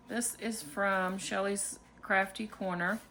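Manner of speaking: usual speaking voice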